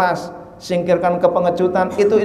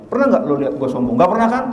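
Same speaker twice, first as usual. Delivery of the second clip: 1 mock boast; 3 semitones higher, much faster than usual.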